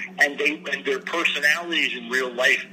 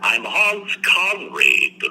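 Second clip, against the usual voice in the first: pompous Hans Conried; 7 semitones higher, 3 dB louder, much slower than usual. Retold or imitated. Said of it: "It was".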